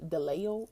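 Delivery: "delayo" as a muddled form of delay; mixed-up word. Shown as a demonstration. Showing her own slip, "delayo" with an extra ending. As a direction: say "delayo" like "de-lay-ul", a tail on delay. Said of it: "I keep mixing up these words".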